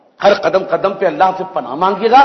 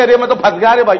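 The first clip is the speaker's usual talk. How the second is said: chuckling as the trapped crow; amused crow's lament; laughing crow voice; faster than usual. Retold or imitated. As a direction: laugh through the crow's line.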